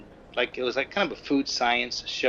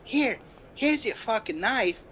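mock Brooklyn; 9 semitones higher than usual. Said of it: "She goes".

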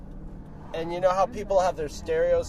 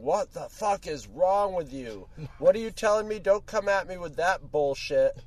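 mock yelling into the phone, a lightly voiced angry woman; imitating angry woman; 2 semitones higher, 4 dB louder than usual. Man voicing a woman chewing out her partner over speakerphone, light mock yell. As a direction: dress him down like a sassy aunt. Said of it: "Aunt Esther black woman yelling at him".

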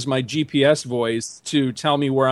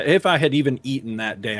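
ordinary talk, nothing marked

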